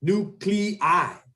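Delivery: "Nuclei" split as NU-clee-EYE; syllable by syllable. Shown as a demonstration. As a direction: model "Nuclei" in separate syllables, ending in eye. Teacher models corrected plural slowly.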